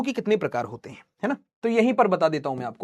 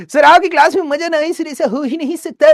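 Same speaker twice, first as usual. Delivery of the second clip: lichtly voiced gushing student; 7 semitones higher, 5 dB louder than usual. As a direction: play an over-eager flattering pupil, pitched up. Acting out a gushing student reply.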